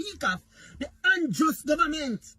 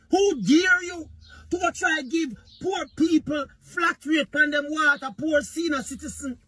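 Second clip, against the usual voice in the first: mock angry prime minister; 3 semitones higher than usual. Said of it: "The man was so angry".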